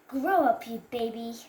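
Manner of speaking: loud jeering bully taunt; mocking bully. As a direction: sneer it like a schoolyard bully. Bullies taunt Rowan.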